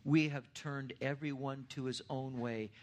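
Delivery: slow, solemn reading of scripture. Acted. Pastor to congregation reading Isaiah fifty-three, slow and solemn. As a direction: read it out deliberately, weighing each phrase.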